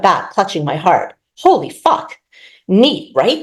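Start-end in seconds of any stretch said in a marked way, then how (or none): 1.4-2.2 high startled exclaim; startled curse. Acted. Miriam startled by a man appearing, high shocked curse. 2.7-3.4 a hint of a mild bald man; lightly voiced pleased. Rupert showing off his trick, mild pleased voice. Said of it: "in a mild voice".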